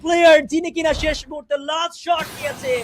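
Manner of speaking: excited caster call. Real, not acted. Caster calling the final kill.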